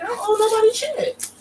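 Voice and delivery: high, defiant mock queen voice; Marie's indignant denial. Marie denying the debt to the jewelers, high defiant mock voice. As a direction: toss off the debt like a snooty queen.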